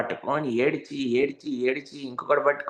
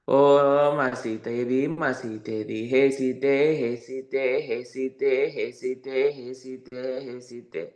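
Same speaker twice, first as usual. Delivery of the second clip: grieving call fading away; 3 semitones lower, slower than usual. Retold or imitated. Rama calling for lost Sita.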